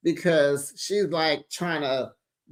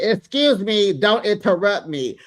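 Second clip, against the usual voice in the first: mock scolding, a bit raised; indignant cut-in; 3 semitones higher, 4 dB louder than usual. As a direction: act the offended mother shutting someone down. Acted mother cutting in.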